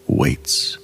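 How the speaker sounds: breathy whispered word; a whispered hush inside the meditation. Acted. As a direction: let the word fall to a whisper. Meditation, a figure waits.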